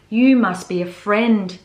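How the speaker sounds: slow, gentle bear voice; tender. Acted. Bear speaking to the girl sewing his button. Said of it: "said Corduroy".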